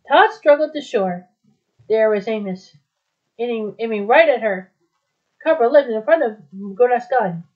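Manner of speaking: measured, dramatic storybook reading; story narration. A narrator's reading. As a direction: read the adventure aloud, phrase by phrase. Reads a story aloud.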